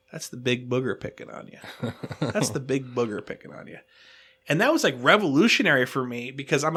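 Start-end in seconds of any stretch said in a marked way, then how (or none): 0.1-3.8 put-on gentle older guy. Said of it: "This older guy, super nice guy".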